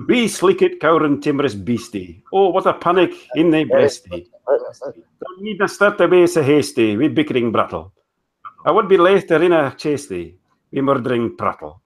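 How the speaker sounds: reciting Burns in a put-on Scottish accent. The speaker reads To a Mouse on the live hangout, in a hammed-up Scottish accent. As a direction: read the poem with a broad Scottish lilt. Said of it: "Accent, uh, uh, Simon puts on".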